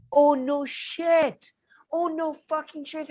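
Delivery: sarcastic. Real, not acted. Sarcastic reply to the clip.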